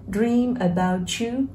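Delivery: "Dream about you" drawn out slowly, words linked; linked reading. Shown as a demonstration. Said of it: "Đọc nối". (đọc nối "Dream about you" thật chậm)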